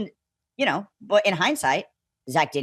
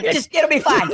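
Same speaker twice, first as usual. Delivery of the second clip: high, offhand dismissal; the guide waving off his fear; breezy reassurance; 10 semitones higher, 4 dB louder than usual. Retold or imitated. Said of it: "she's like".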